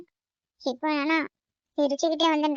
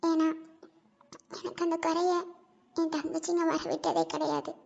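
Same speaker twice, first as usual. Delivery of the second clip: sad private lament; 5 dB quieter than usual. Acted. Talks alone to dead parents.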